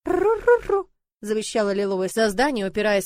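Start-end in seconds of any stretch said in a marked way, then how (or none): 0.0-0.9 high, loud stubborn dragon coo. A narrator's reading. Дракон упирается. (упрямое воркование дракончика)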